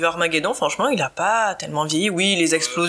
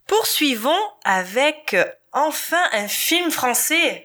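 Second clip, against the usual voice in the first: slow, higher-pitched presenter delivery; host's announcement; 5 semitones higher, slower than usual. Real, not acted. Host introducing the next French film, slow announcer build-up.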